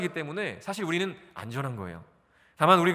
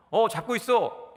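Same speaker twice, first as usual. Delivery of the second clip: slow, higher, soothing fib; dad's white lie; 8 semitones higher, 3 dB louder, slower than usual. Retold or imitated. Father lies kindly to his son, slow and reassuring. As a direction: reassure the child while secretly letting go. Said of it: "선한 거짓말을 하는 겁니다".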